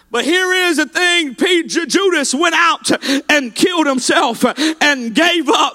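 impassioned revival preacher, driving without let-up; fervent altar-call preaching, rising in pitch; full-force preaching. Real, not acted.

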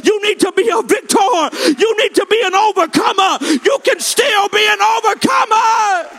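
rousing revival climax, pitch climbing steadily; impassioned preacher rallying the congregation; full-force preaching. Real, not acted. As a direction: build from firm declaration to a high, ringing cry.

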